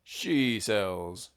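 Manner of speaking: slow attempt at Australian; half-managed Australian accent, slowly. Shown as a demonstration. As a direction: try a drawn-out Australian accent. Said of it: "I think I could do it Australian".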